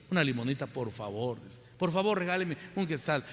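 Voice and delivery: a hint of a beggar pleading softly; lightly voiced beggar. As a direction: plead meekly for a coin, lightly acted. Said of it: "Por favor, suplican". (mendigo que suplica con humildad, apenas actuado)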